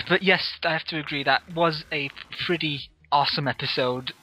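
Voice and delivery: talking between sips of milk; while sipping a drink. Real, not acted. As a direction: speak right after a sip. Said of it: "excuse me while I drink this chocolate milk".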